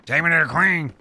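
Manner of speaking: put-on an amateur British accent making a demand. Uncle Tad demanding to see the Queen, British accent. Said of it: "trying to do a British accent".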